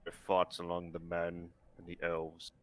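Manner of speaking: low, hushed lizard voice. Acted. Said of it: "I gotta do the lizard voice".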